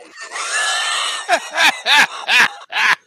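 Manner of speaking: high, loud burst of laughter; laughing hard. Real, not acted. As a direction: crack up at the story. Laughing at own story.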